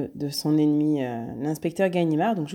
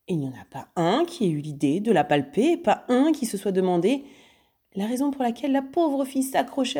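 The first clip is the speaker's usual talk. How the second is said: higher, mocking lecture; scornful taunting; 5 semitones higher than usual. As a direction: belittle his stupidity. Lupin nargue Ganimard. (sermon moqueur plus aigu)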